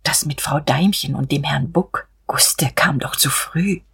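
hushed, whispered confession; reluctant secret let out under the breath; timid. A narrator's reading. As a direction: whisper it shyly, slowing at the end. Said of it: "erklärte sie schüchtern".

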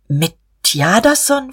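anxious question. A narrator's reading. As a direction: ask it anxiously, pitch lifting. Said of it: "forschte er angstvoll". (ängstlich nachfragend)

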